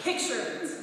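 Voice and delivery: lightly voiced old storyteller's opening; a hint of a nosy Sicilian grandma saying "Picture it."; Sophia Petrillo. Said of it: "I'm doing my best Sophia Petrillo".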